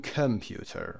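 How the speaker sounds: کامپیوتر with a short neutral "kəm" at the start; correct schwa pronunciation. Shown as a demonstration. Teacher modelling the sound between a and e, schwa pronunciation. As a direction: reduce the first vowel of کامپیوتر to schwa.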